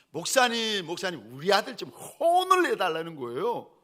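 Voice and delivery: loud, high, hammed-up indignation; huffing angry complaint. Angry church mother to her pastor about her son, indignant. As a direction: imitate an outraged mother demanding action. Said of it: "막 화가 나셔가지고 씩씩거리면서".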